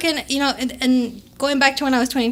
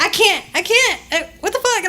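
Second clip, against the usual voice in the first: exasperated; 7 semitones higher than usual. Retold or imitated. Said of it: "I was like".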